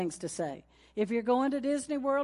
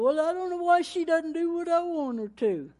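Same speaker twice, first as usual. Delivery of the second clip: mock complaining husband; 7 semitones higher, 5 dB louder than usual. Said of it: "Instead of".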